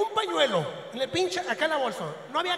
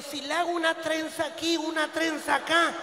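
excited joke. Retold or imitated. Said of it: "Dije yo".

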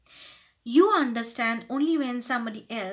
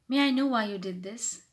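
courteous, tactful inquiry; humble polite question. Shown as a demonstration. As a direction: ask the reason without accusing. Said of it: "try to sound more humble".

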